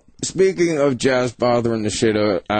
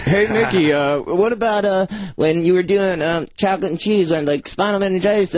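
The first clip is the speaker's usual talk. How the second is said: higher, eager fan rambling questions; pestering fan; 5 semitones higher than usual. Retold or imitated. Mocking a fan bothering a musician, eager and higher. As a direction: badger him like a superfan. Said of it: "imitating fan pestering a musician".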